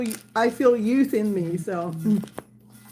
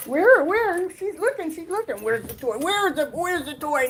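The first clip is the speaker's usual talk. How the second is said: pet talk; 5 semitones higher than usual. Real, not acted. Excited pet talk to dog.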